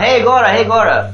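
high calling voice; just calling out. Shown as a demonstration. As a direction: call out to someone by name. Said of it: "we're not just calling out".

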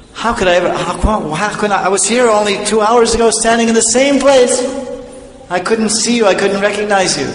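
high, stumbling disbelief at yourself; astonished self-reproach. Acted. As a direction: stammer in amazement, pitch held high. Devotee astonished at earlier blindness.

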